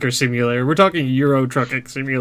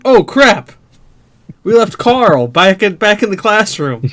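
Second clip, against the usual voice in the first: mock panic; 5 semitones higher than usual. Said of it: "we'll be like".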